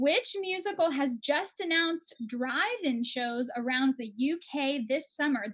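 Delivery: slow, deliberate quiz host; measured question-master delivery; quiz question read-out. Acted. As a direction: announce the question slowly to the players.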